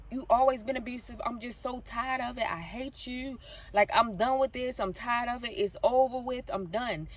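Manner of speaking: a hint of a fed-up woman venting; retold angry rant.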